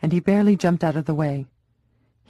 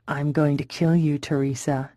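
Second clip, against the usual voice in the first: calm threat. Acted. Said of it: "he said calmly".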